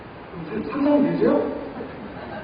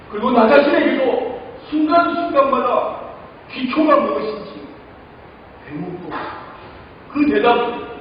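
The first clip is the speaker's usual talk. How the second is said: prayer. Retold or imitated. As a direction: pray it with feeling. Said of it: "저 기도했어요".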